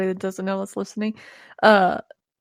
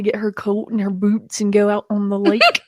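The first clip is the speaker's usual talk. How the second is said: lightly imitated Minnesotan accent. Imitating tipsy mom's talk, light Minnesotan accent. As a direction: slip into mom's Minnesotan vowels. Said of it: "Her Minnesotan comes out".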